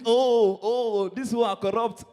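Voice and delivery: lamenting "oh, oh"; mock complaining. Comedian mimics Kenyans moaning about corruption, mock complaining. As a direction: imitate an indignant moaner. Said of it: "You guys are complaining of corruption".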